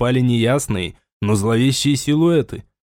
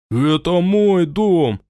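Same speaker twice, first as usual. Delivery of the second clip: higher, slowed, indignant shout; angry cry; 6 semitones higher, slower than usual. Acted. Raul cries out at the armed soldiers, angry. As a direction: defy the armed men. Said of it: "гневно выкрикнул он".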